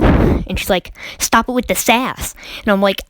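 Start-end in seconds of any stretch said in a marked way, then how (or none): 1.2-2.4 hint of a scolding Karen teacher; retold telling-off. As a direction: lightly mimic a teacher's sharp reprimand. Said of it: "that was a Karen".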